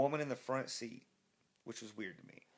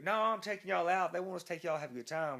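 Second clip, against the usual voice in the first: driver voice; 5 semitones higher than usual. Retold or imitated. Drunk driver insists on partying.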